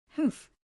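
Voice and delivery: short scornful humph; cold snort. Acted. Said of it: "snorted coldly".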